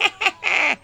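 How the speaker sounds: high devils' laughter; devilish cackle. A narrator's reading. Devils cackle climbing out of the cellar, high cackle. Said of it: "хохотали черти".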